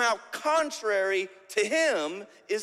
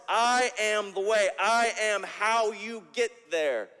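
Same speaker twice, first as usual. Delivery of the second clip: louder, pressing hard on I; emphatic declaration; 3 dB louder than usual. Acted. Preacher driving home Jesus' claim to the congregation, emphatic. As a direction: proclaim I am the way with full force.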